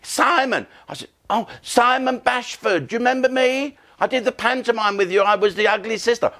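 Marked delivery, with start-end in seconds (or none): 0.0-0.7 much higher, lightly voiced old colleague; mock high voice. Old panto colleague Simon revealing himself to the teller, squeaking. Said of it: "as if that would make". 1.3-6.3 surprised greeting. Retold or imitated. The teller recognising his old panto colleague, delighted.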